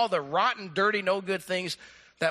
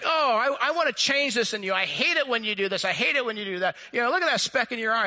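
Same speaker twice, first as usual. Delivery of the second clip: raised, exasperated fault-finding; mock complaining spouse; 4 semitones higher than usual. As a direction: act out a nagging spouse's complaint. Mimics spouse criticizing the other.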